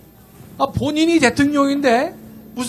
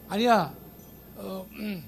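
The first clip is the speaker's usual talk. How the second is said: failed Gyeongsang try. Retold or imitated. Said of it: "흉내가 안 되네".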